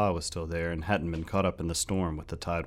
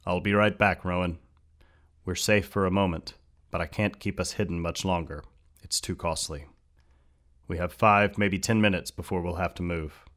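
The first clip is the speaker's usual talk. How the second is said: urgent robed man; 3 dB louder than usual. Acted.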